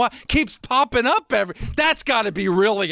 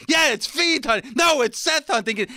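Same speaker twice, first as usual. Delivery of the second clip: mock Fiend; 4 semitones higher than usual. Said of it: "And The Fiend would say".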